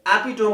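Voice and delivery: एपिटोम as EPI-tome, silent final e; common mispronunciation. Shown as a demonstration. Teacher imitating students' error, एपिटोम rhyming with home. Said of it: "क्या बोलते हैं?".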